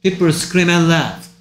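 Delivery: very slow, word-by-word model sentence; slow reading model. Shown as a demonstration. Teacher feeding a sentence to a student to repeat, slow model reading. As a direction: read it out slowly for a learner to copy.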